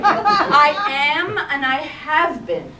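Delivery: loud, slow, exasperated retort with a laugh; mock irritated outburst at the inner voice. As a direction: snap back, fed up and half laughing. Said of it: "She started to get irritated".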